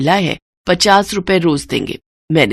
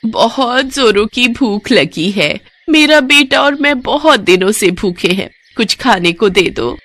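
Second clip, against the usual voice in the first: higher, pleading hungry woman; beggar woman; 5 semitones higher than usual. Acted. Disguised goddess begs the family for food, pleading. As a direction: beg humbly for food.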